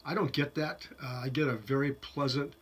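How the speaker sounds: talking around pipe stem; pipe in mouth. Real, not acted. Seen 2: Pipe stem at mouth while speaking; lowered by +2.5.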